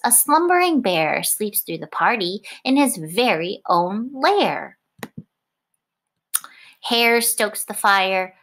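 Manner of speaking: lively picture-book read-aloud; reading to children. A narrator's reading. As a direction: read it like storytime on the rug. Teacher reads picture book aloud.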